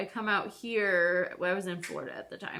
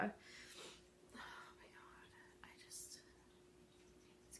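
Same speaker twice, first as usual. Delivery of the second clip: breathy unvoiced frustrated aside; exasperated whisper; 23 dB quieter, much slower than usual. Real, not acted. To her viewers about the slow diagnosis, whispered exasperation. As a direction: hiss it under your breath, fed up.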